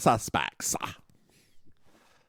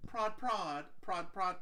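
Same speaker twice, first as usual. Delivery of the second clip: mock whispered prods; 6 semitones higher, 14 dB quieter, slower than usual. Shown as a demonstration. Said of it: "Could you actually hear me say".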